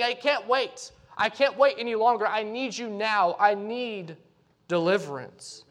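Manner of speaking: urgent plea. Acted. Preacher voicing David begging God to act now, urgent. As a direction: beg God not to wait any longer.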